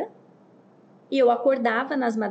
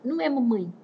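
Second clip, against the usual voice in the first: lightly mimicked baby protest; hint of a toddler's voice; Baby Sauro imitation; 2 semitones higher than usual. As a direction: refuse like a cartoon baby. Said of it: "Igual o Baby Sauro".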